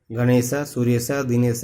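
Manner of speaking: गणेश, सूर्यस, दिनेश slowly, each with a visarga ending; विसर्ग का उच्चारण. Shown as a demonstration. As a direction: draw out the last syllable of गणेश, सूर्यस, दिनेश as example words. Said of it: "last में जो बोल देते हैं". (गणेश, सूर्यस, दिनेश के अंत में विसर्ग, धीरे-धीरे)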